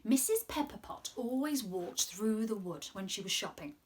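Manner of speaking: gentle storybook reading voice; reading to children. Acted. Presenter reading a story aloud to the children. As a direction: read it like a storyteller to little ones.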